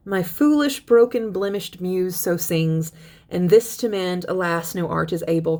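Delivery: measured verse recitation, slowing on key lines; teacher reading a poem to the class. Acted. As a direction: read the stanza like verse, not chat. Reads Bradstreet poem aloud.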